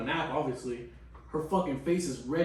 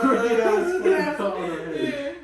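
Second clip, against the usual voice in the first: laughing; 5 semitones higher, slower than usual. Real, not acted. Laughing about sister's haircut.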